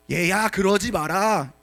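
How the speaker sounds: a limp fatherly "don't do that"; mock feeble plea. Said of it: "이게 지금 말이 되냐고". (힘없이 느리게 타이르는 흉내)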